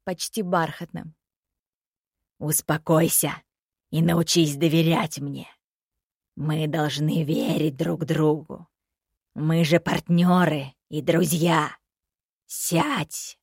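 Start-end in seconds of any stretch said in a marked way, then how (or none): 2.4-11.8 low, slow velvety coaxing; soft velvety voice. Acted. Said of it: "Голос собеседника стал мягким, почти бархатным". 12.5-13.4 eerie command. Acted. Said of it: "Последняя фраза прозвучала жутко".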